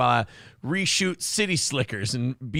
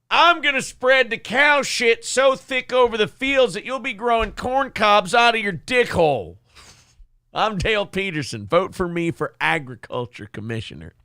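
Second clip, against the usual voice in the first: gruff campaign-ad parody, a bit higher; lightly voiced angry candidate; mock Dale Peterson ad; 3 semitones higher than usual. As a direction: ham up a redneck politician's attack ad. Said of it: "Dale Peterson felt the need to put out an ad".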